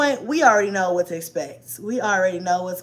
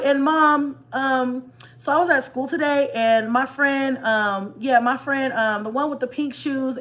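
put-on child telling a story; 3 semitones higher, slower than usual. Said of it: "They'll be like".

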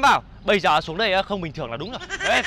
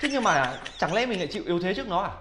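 low, softer talking to oneself; scheming aside; 4 semitones lower, 7 dB quieter than usual. Acted. Deity weighing up his rival to himself, scheming aside. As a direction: think aloud under your breath.

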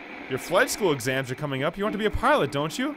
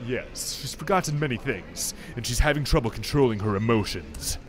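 doctor's voice; 6 semitones lower than usual. Acted. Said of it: "I'm gonna give him a voice now".

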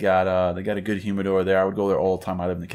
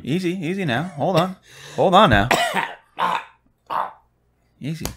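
high, teasing "whoa there" voice; mock soothing; 9 semitones higher than usual. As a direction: playfully talk down a coughing friend, high-pitched. Calming friend who is coughing.

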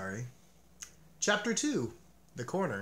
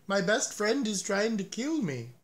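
mock panic; 6 semitones higher than usual. A narrator's reading. Toad protesting being dressed.

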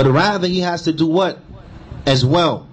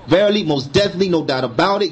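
quick, emphatic insistence, higher on "verily, most definitely"; extreme emphasis; 3 semitones higher than usual. Shown as a demonstration. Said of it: "It's extreme emphasis".

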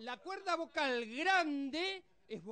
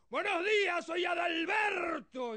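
manly voice; 4 semitones higher, 4 dB louder, slower than usual. Retold or imitated. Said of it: "yo tengo la voz de un varón".

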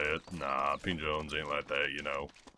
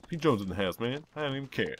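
put-on voice; 6 semitones higher, faster than usual. Shown as a demonstration. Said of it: "voice tones".

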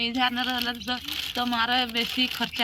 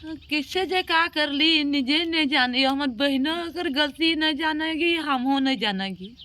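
higher-pitched tearful lament; real crying; 3 semitones higher than usual. Real, not acted. Distraught woman telling helper about her troubles, crying. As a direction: pour it out through tears. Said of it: "आप तो रो रहे हो बैठ के".

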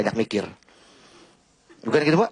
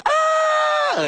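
put-on very high girlish scream; cheering scream. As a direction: shriek like a fan cheering her man on. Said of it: "dia teriak". (teriakan cewek yang mendukung pacarnya, melengking tinggi)

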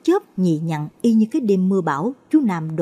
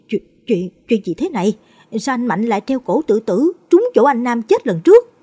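shocked stammer; 4 semitones higher, 6 dB louder than usual. Acted. Neighbor sees hanged body.

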